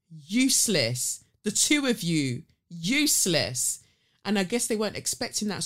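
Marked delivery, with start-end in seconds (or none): 0.1-3.8 retold contempt. Retold insult to the couple.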